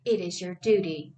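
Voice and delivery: mother's thick accent on "It is your duty", a milder false-toned imitation; "It is your duty" in a mild imitation of mom's accent. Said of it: "took on a false tone and the thick accent of her mother".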